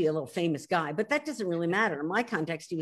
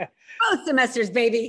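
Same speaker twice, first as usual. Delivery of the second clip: proud and laughing, a bit louder; laughing brag; 5 dB louder than usual. Real, not acted. Bragging to Lynn about Roth's A grades, laughing and louder. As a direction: crow it with a laugh. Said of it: "I have to brag".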